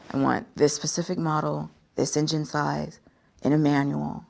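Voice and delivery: very slowly. Retold or imitated. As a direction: spell it out patiently to the salesman. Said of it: "And again, very slowly".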